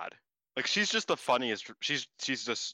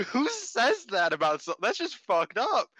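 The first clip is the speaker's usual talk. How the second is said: outraged disbelief; 9 semitones higher than usual. Retold or imitated. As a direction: stretch it out in disbelief. Outraged at the promo line.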